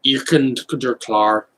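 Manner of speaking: made-up German phrases; mock German. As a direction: fake German gibberish. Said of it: "I'm just saying gibberish".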